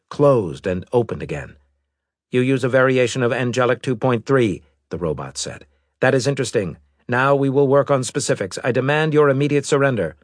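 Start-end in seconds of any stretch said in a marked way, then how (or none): 2.3-10.2 fast, cold robot voice; a hint of a machine envoy; lightly voiced robot. Robot alien speaks.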